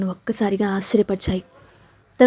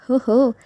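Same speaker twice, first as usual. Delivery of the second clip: playful whoop; 3 semitones higher, much slower than usual. Acted. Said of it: "అల్లరిగా అరవడం".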